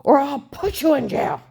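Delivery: high, loud, slow imitated ultimatum; furious agent ultimatum. Agent pressuring the drugged witness, loud slow mock ultimatum. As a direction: drive each word home like a bully cop. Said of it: "He said".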